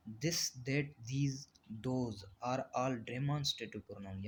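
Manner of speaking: very slow, word-by-word reading of the definition; slow dictation. Shown as a demonstration. Teacher dictating a definition to the class, very slow and even. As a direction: spell the definition out slowly for students to copy.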